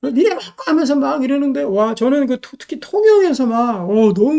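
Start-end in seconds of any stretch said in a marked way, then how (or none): 0.0-0.6 mock Gyeongsang dialect jab, pitched higher. Pastor recalls Gyeongsang locals confronting him, a mock Gyeongsang dialect. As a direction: echo the hostile Gyeongsang locals in a light imitation. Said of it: "경상도 사투리로 해가지고".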